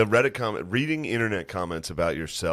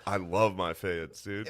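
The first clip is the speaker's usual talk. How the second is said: earnest; 2 semitones lower, 5 dB quieter, slower than usual. Retold or imitated. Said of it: "I was like".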